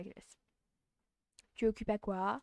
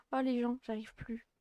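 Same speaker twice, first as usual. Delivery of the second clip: usual speaking voice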